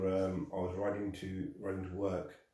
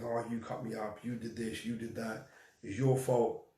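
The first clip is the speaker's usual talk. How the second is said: imitating a driver blaming him, rising at the end; retold angry motorist; 3 semitones higher than usual. Cyclist retelling the motorist shouting blame at him, mild mock anger. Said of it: "it kicked off and he started going".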